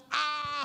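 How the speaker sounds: high mock yell, held back in volume; imitated pained scream. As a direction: echo her scream in comic pain. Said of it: "saya teriak". (teriakan tiruan menahan sakit)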